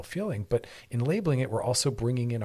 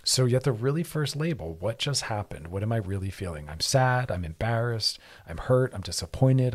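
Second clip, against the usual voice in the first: ordinary talk, nothing marked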